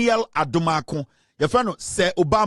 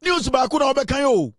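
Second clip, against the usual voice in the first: excited mock; 7 semitones higher, slower than usual. Mocking a fashion-show list.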